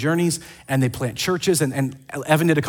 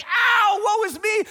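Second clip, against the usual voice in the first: mock self-pity; slower than usual. Preacher mocking a moaning apostle with a hammed-up wail. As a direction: whine it like a melodramatic victim. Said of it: "They're not like".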